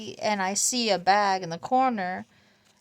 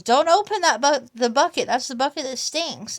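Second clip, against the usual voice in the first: mock alarmed warning; 4 semitones higher, 9 dB louder than usual. Mom warning in retold story.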